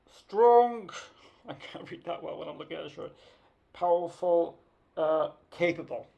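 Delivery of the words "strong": loud punched word; emphatic. Acted. Reading her shirt to viewers, loud punched word. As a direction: punch it out like a slogan.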